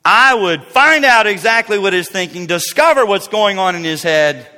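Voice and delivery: loud, forceful boast; self-important declaration; arrogant. Acted. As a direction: punch it out with cocky certainty. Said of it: "notice the arrogant attitude here".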